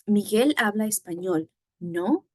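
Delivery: statement first, then rising NO; tag-question intonation. Shown as a demonstration. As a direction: keep "Miguel habla español" a statement, lift only "no". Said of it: "intonation on just".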